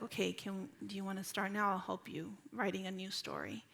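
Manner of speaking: soft, soothing motherly offer; gentle coaxing. Retold or imitated. Mother helping calmed daughter restart her story, gentle coaxing. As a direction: offer help quietly and gently.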